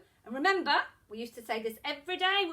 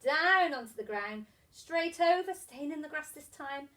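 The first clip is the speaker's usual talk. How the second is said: rhythmic teacher patter with stretched key words; handwriting patter; 3 dB louder than usual. Shown as a demonstration. Teacher guides young pupils through letter strokes, rhythmic handwriting patter. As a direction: talk a pencil through each stroke. Chants letter formation while demonstrating.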